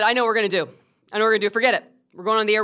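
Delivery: firm, take-command delivery; taking charge. Retold or imitated. Storyteller as veteran host taking over in a storm, decisive. Wendy takes charge, retold.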